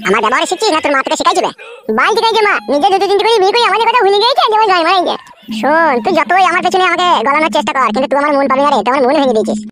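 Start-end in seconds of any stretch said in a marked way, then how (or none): 2.0-5.1 angry retort. Acted. Son quarrels with stepmother.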